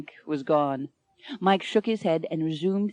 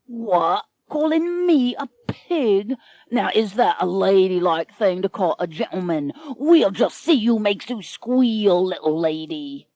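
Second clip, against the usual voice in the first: menacing pirate captain. Acted.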